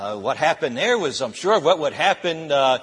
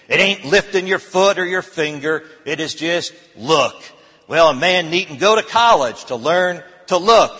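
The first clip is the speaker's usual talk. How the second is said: louder, rising voice of a plain country preacher; rustic lay preacher; 3 semitones higher, 3 dB louder than usual. Acted. A lay preacher urging the congregation to look. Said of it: "The preacher began in this way".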